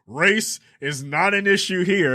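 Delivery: high, hurried hushing voice; mock panicked placating. Hurried placating white woman quote.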